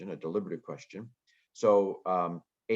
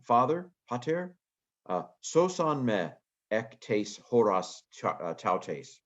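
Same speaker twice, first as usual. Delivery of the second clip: Greek prayer read aloud; 4 semitones higher, 3 dB louder than usual. Acted. Reads Greek prayer with feeling.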